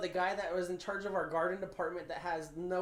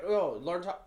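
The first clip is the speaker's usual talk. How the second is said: put-on British accent; 4 dB louder, slower than usual. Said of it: "I'm gonna try and do an accent".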